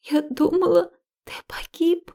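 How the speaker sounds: tearful whisper, pitch lifting. A narrator's reading. Liya telling Max she thought him dead, whispered. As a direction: confess it under your breath, about to cry. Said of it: "наконец шепчу я".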